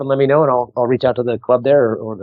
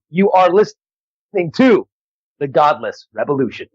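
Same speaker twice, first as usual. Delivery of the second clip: punchy radio plug with a slowed sign-off; promo drop; 2 semitones higher than usual. Real, not acted. Comedian retakes the drop to get it right, promo read. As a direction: read a show bumper, measured and deliberate at the close. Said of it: "Let me get this right".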